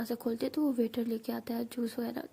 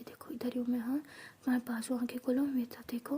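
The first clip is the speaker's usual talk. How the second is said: soothing softly; 6 dB quieter than usual. Acted. Avni soothes drunk Meera.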